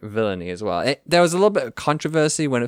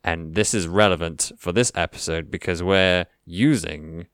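villain voice; 4 semitones lower than usual. Acted. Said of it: "A good villain sounds like this".

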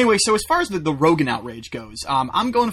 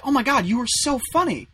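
lightly voiced gushing woman, higher pitch; mock gushing; 8 semitones higher than usual. Woman comic complimenting him after the set, mock gushing. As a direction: imitate an over-sweet compliment.

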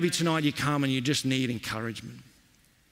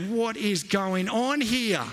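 baffled; 7 semitones higher, much slower than usual. Retold or imitated. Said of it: "And I'm like".

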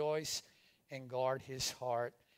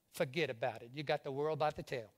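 lightly voiced Cajun grandmother; a touch of Cajun accent in a retold quip; 2 semitones lower, faster than usual. Cajun grandmother brushing off a whining boy, light Cajun accent. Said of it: "You can't say it with a Cajun accent".

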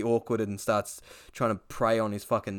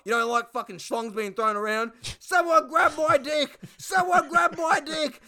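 Duck's voice; 13 semitones higher, 4 dB louder than usual. Retold or imitated. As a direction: stretch it out pitched way up. Duck voiced, drawn-out shout.

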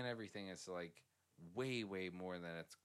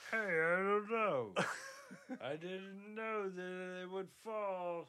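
higher, slow, playing dumb and innocent; mock clueless mechanic; 9 semitones higher, 4 dB louder, slower than usual. Co-host mocking the clumsy young mechanic, whiny and slow. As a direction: whine it like a kid caught out.

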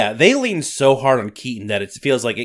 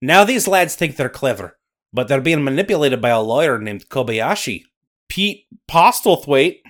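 louder Scottish storyteller voice; Scottish accent; 5 dB louder than usual. Acted. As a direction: narrate like a Highland storyteller. Nessie narrating in Scottish accent.

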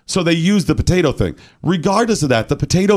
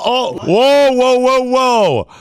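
surprised; 10 semitones higher, 3 dB louder, slower than usual. Real, not acted. Reacting to a clip.

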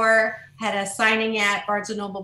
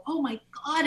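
delighted gasp; 5 semitones higher, 4 dB quieter, faster than usual. Retold or imitated. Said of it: "I get to go and go".

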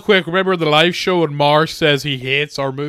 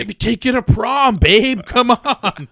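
higher sleazy coaxing voice; sleazy flirt; 5 semitones higher than usual. Retold or imitated. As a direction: lay on the sleaze like a creep. Mocking a creepy flirt.

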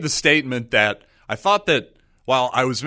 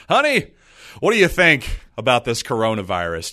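a pretend sweet call to the wife, pitched up; sweet honey. Host asking his registered-nurse wife, mock-sweet and pitched up. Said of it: "I never call her honey".

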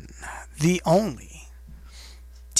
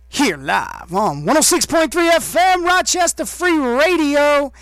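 hype shout; 10 semitones higher than usual. Pretend. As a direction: shout the station name like a showman. Hyping the station on air.

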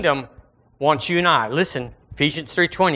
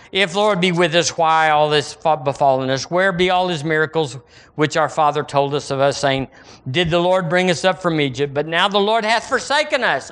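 complaining; 2 semitones higher than usual. Acted. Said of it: "complaining, accusing".

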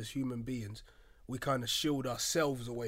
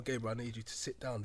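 serious; 2 semitones lower, 5 dB quieter than usual. Retold or imitated. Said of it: "Very serious".

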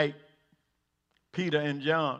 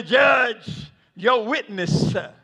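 clerk calling out; 4 semitones higher, slower than usual. Acted. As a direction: announce the witness to the judge. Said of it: "turn around to the judge and say".

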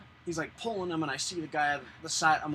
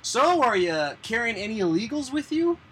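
a higher, louder officer voice, lightly done; mock the officer's question, pitched up; imitating the officer; 7 semitones higher, 10 dB louder than usual. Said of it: "they're like".

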